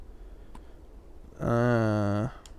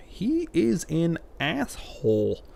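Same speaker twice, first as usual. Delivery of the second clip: annoyed aside; 7 semitones higher, slower than usual. Real, not acted. High slow annoyed aside.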